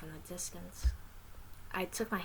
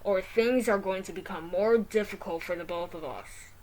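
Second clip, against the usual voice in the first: robot voice; 6 dB louder than usual. Acted. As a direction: speak like a mall security robot. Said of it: "the robot said".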